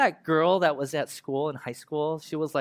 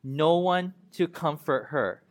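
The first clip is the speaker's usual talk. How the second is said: slow shared reading; slower than usual. Acted. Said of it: "read this with me".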